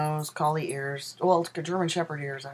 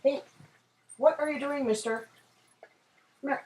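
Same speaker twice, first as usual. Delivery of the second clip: much higher sing-song to the dog; 10 semitones higher than usual. Real, not acted. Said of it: "I sound way more girly when I talk to my dog".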